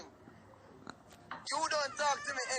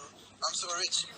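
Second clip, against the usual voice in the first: slow gloating brag; 4 semitones lower, much slower than usual. Acted.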